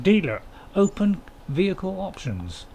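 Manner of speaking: slow, deliberate read of the menu text; reading game text aloud. Shown as a demonstration. Streamer reads the game menu to viewers, slow announcer read. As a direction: spell out the on-screen prompt slowly. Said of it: "I got a job to read that".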